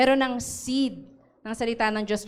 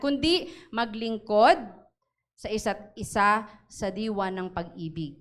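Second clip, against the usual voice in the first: raised, earnest reading of the verse; scripture reading; 2 semitones higher than usual. Acted. Preacher reading scripture to the congregation, earnest. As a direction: read the verse out with weight.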